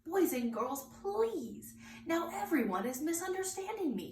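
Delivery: a touch of pleading teacher; exasperated teacher. Acted. Teacher tries to calm the class, lightly exasperated. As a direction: rise up pleading for patience.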